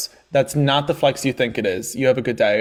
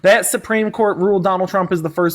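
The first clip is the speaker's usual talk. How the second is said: drawling mock country accent, lightly done; country accent slipping in and out; put-on country accent. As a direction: play a hick country caller-host accent. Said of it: "whatever accent that was".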